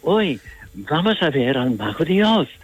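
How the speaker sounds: innocent. Shown as a demonstration. Actor demonstrates how the Scarecrow should sound, innocent. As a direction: say it with childlike wonder, pitch swooping up and down. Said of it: "si tú dices con inocencia".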